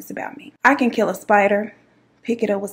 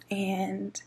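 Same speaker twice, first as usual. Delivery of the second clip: whispered, much softer; hushed, holding back tears; 11 dB quieter, slower than usual. Retold or imitated. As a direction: whisper as if barely holding it together. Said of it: "I was fighting back tears".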